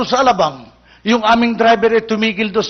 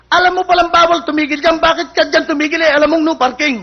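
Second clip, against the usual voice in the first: raised, higher-pitched telling-off; louder, exasperated police reprimand; scolding policeman; 6 semitones higher, 4 dB louder than usual. Acted. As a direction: scold the driver like an indignant cop. Policeman scolds driver for stopping.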